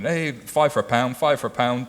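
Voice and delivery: lightly voiced market hawker; market trader call. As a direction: call out like a stall seller. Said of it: "They're like the market salesman".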